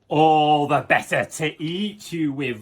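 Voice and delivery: loud, slow roar; roaring wolf. Acted. Wolf revealing itself to Little Red, loud slow roar. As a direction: roar it to scare the child. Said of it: "roared the wolf".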